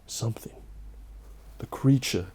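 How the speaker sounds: soft, eerie whispered warning; spooky whisper. Acted. Closing a Halloween story for viewers, eerie whisper. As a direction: lean in and whisper it like a ghost story.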